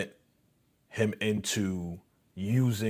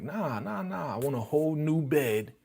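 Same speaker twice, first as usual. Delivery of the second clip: higher, whiny imitated girlfriend; mock girlfriend; 7 semitones higher than usual. Girlfriend refusing to come home, high mock whine. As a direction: play her making a bratty demand. Girlfriend's demand voiced in retelling.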